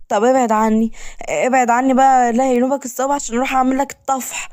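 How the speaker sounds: high-pitched, whiny shooing away; irritated protest. Acted. Woman telling him to back off before cooking, irritated. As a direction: push him off with a high, fed-up complaint.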